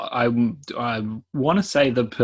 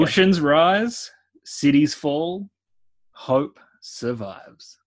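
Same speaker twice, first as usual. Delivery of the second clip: slow, breathy trailer voice; sultry narrator; 3 semitones higher, slower than usual. Pretend. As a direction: purr it like a movie trailer. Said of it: "in a much more sultry voice".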